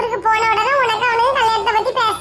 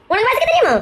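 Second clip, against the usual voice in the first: insistent challenge; faster than usual. Acted. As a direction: press the question harder, pitched up. Repeats the challenge more insistently.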